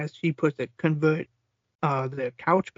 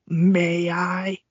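shout. Retold or imitated. Retold shouted battle cry.

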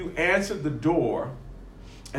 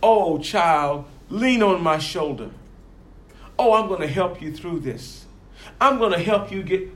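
fake sweet befriender; 3 semitones higher than usual. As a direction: lure a hurt person with false kindness. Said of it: "pretend to befriend them".

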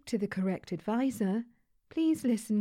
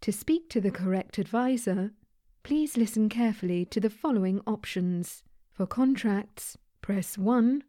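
automated phone menu; 4 dB louder than usual. Acted.

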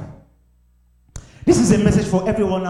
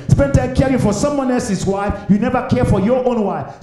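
rhythmic list building to a high peak; impassioned preaching; 4 semitones higher than usual. Real, not acted. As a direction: press each contrast harder, climbing in pitch.

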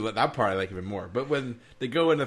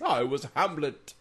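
slow, stretched faux-English; put-on English accent; 3 semitones higher than usual. Host plays along with Cambridge bit, slow fake English accent. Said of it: "I can't do an English accent".

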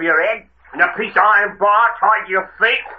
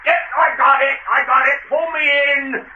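urgent plea from water; 5 semitones higher than usual. Acted. Drowning man grabs the rope.

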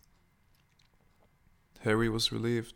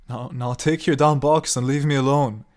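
loud, angry outburst; raised voice; 4 semitones higher, 11 dB louder than usual. A narrator's reading. Harry ordering the old woman to leave, loud and angry. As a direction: blow up and throw her out. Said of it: "He raised his voice".

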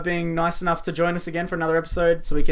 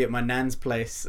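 a bit British; 5 semitones lower, 5 dB quieter than usual. Real, not acted. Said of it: "you went a bit British".

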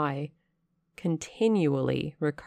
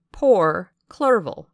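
pitying lament; 2 semitones higher, 7 dB louder, slower than usual. A narrator's reading. Narrator laments his friend's shock.

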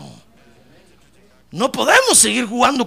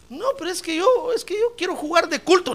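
reluctant believer; 11 semitones higher than usual. Acted. Acts out a reluctant believer's excuse.

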